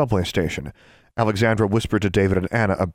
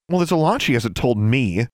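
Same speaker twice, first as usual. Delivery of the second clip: said hotly; 5 semitones higher than usual. Acted. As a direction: answer back hotly. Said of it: "Alexandra said hotly".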